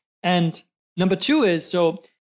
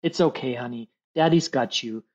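reassuring parent; 5 semitones lower than usual. Pretend. Dad comforting his daughter, reassuring. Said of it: "a sense of reassurance".

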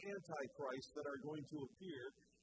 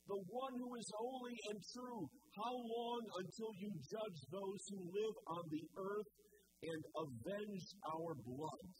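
raised pleading cry, slowing at the end; loud cry; 4 semitones higher than usual. Retold or imitated. Martyrs crying out to the Lord for justice, loud pleading. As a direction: call out to the Lord, drawing out the last words. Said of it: "cried out with a loud voice".

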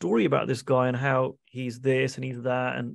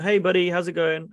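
cheery greeting; 4 semitones higher, 4 dB louder than usual. Retold or imitated. Friendly hello to rude neighbour.

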